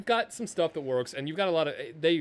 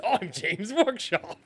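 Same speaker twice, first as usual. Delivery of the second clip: slow, hammed-up Nottingham drawl; a put-on English accent, stretched out; mock Nottingham self-introduction; 6 semitones higher, much slower than usual. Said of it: "Nailed that Nottingham accent".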